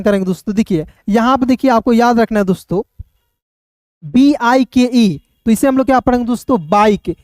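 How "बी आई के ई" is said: slow, measured letter names; slow spelling. Shown as a demonstration. Teacher spelling bike for learners, slowly and separately.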